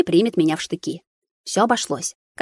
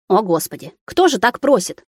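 exasperated cry; 3 semitones higher than usual. Acted. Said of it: "крикнула тут Анжела".

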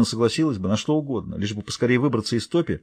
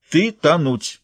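flat statement; 5 semitones higher, much slower than usual. Acted. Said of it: "констатировала она".

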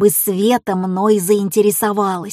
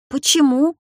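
surprised; 5 semitones higher than usual. Acted. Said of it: "удивился я".

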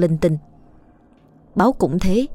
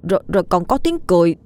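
mildly agitated, stammering account; nervous retelling with stumbles; scared insistence; 3 semitones higher than usual. Acted. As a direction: plead to be believed, faltering as you go. Frightened boy insists on what happened.

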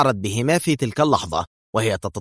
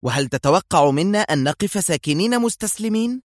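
higher, indignant cry of protest; raised-pitch angry challenge; angry outcry; 7 semitones higher than usual. A narrator's reading. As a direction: fling the question at him, higher. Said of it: "صاحت مستشارة الأمن في غضب".

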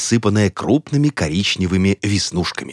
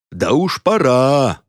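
нетерпеливый рёв; 6 semitones higher, slower than usual. A narrator's reading. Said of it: "раздался рёв голосов".

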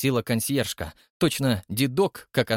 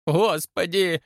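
frightened gasp; 6 semitones higher, 3 dB louder, slower than usual. A narrator's reading. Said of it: "втянула голову в плечи консьержка".

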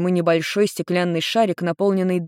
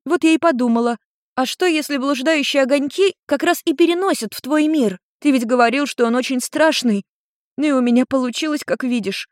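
put-on higher young girl's voice, eager; lightly voiced daughter telling her story; teen girl explaining; 7 semitones higher than usual.

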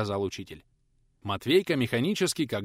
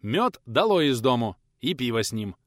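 loud order; 5 dB louder than usual. Acted. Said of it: "продолжал отдавать распоряжение".

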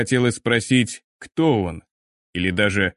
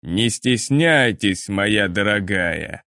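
slow, strange inhuman voice; eldritch horror; slower than usual. Acted. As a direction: speak like something not human. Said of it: "странным, нечеловеческим голосом".

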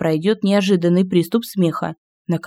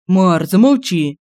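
demanding; slower than usual. Acted. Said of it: "потребовал Семён".

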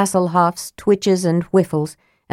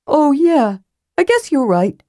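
Tass; 10 semitones higher than usual. Acted. Tass voiced.

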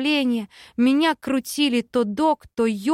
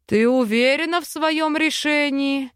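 higher, booming chief's demand; rumbling voice; 4 semitones higher than usual. Acted. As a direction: thunder it across the island. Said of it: "пророкотал голос вождя на весь остров".

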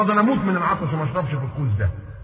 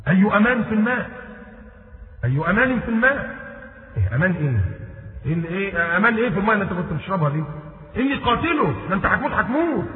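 astonished Omar; 5 semitones higher than usual. Retold or imitated.

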